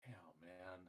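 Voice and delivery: mock crying. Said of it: "Cry me a river".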